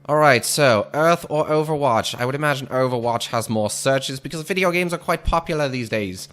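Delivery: 1940s radio announcer voice; lightly voiced old-time announcer; old radio serial. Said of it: "This is really what I would just call my radio announcer voice".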